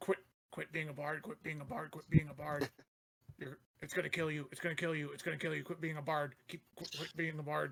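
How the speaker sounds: whispered, spoken in a whisper. A player acts out whispering to a sleeping bard, whispering into his ear. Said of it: "he's going to whisper like like just".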